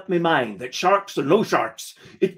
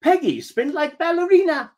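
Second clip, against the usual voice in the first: put-on much higher playful child voice; little girl voice; 13 semitones higher than usual. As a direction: chirp it like a delighted toddler. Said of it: "she laughed and said".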